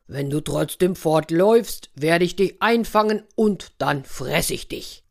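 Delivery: put-on a bear warning the girl not to run; understated menacing bear; threatening bear. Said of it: "drohte der Bär".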